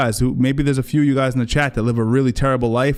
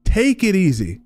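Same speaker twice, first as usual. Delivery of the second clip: mock De Niro; 7 semitones higher, slower than usual. Mocking De Niro again.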